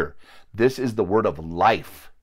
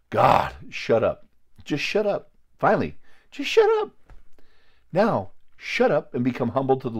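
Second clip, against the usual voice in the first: exasperated shut up; 4 semitones higher than usual. Retold or imitated. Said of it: "And you're just like".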